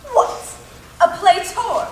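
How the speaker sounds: mischievous scoffing. Acted. Puck scoffs at amateur players.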